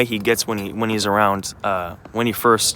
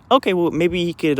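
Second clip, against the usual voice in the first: high-pitched, easygoing retold reply; friendly suggestion; 9 semitones higher, 4 dB louder than usual. Girl suggesting the dogs meet, friendly. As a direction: imitate an agreeable friendly stranger. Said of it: "friendly and delightful".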